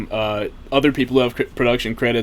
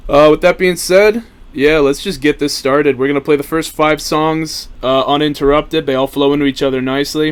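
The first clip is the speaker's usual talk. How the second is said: excited announcing; 4 semitones higher, 6 dB louder than usual. Real, not acted. Hyping up the album playback.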